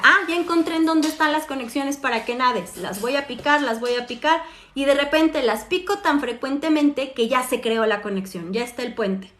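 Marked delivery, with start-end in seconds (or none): 0.0-4.4 excited brain. Retold or imitated. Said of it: "para que el cerebro diga".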